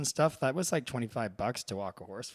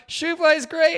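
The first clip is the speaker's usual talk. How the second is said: upbeat reply; 12 dB louder than usual. Retold or imitated. Cheerful reply in retold scene.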